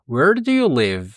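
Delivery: slow, careful English model; teacher modelling slowly; slow model question. Shown as a demonstration. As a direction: spell it out slowly for learners.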